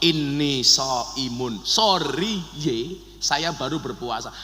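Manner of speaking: slow, low, soft answer; meek, patient reply. Acted. Fasting person answering a blow, meek and patient. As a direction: keep it soft and slow, no retaliation.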